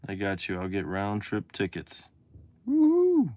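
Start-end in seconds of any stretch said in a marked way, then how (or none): 2.7-3.3 high whooping woo-hoo; excited cheer. Real, not acted. Celebrating the New York trip, high whoop. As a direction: whoop it up with delight.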